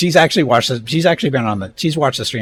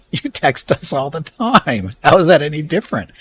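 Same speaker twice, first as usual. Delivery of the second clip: retold exasperation; 7 semitones higher, 5 dB louder than usual. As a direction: hammer the point at mom, pitched up and building louder. Retold argument with mom, point repeated.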